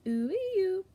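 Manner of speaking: cooing vocaloid voice; virtual singer voice. Acted. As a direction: coo it sweetly as a virtual singer. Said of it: "She goes".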